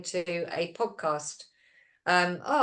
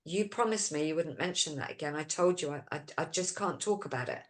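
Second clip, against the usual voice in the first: retold serious reproach, softer; really serious; 6 dB quieter than usual. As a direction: quietly imitate someone firmly upset. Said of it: "went really serious and he went".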